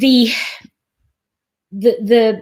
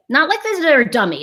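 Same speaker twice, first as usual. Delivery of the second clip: condescending; 3 semitones higher, faster than usual. Shown as a demonstration. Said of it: "It's not like that".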